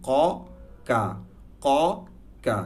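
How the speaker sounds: ক from the back, কা from the front; contrasting qaf and kaf. Shown as a demonstration. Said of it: "ভেতর থেকে ... সামনে থেকে".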